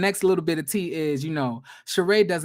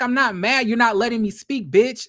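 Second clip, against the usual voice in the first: mock angry retort; 3 semitones higher, 4 dB louder than usual. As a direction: bite back, imitating Sheree. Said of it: "she was like".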